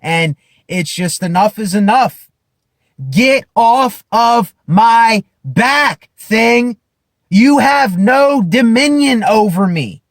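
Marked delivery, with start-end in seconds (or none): 3.1-10.0 slow, raised command to his demons; loud rebuke. Acted. To his own demons, a loud defiant rebuke. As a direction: order the demon off your back. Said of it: "I know I'm being loud".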